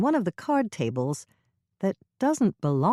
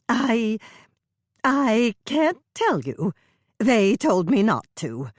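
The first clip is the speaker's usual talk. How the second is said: slow, higher, faltering reluctance; a touch of nervous stalling; hesitant mother; 6 semitones higher, 5 dB louder, slower than usual. A narrator's reading. Dolores refusing to tell Hannah, nervous.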